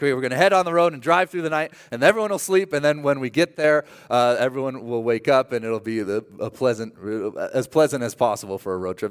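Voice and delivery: fast, upbeat organized parent; cheerful planner parent. Retold or imitated. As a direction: rattle off the plan brightly. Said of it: "you're like".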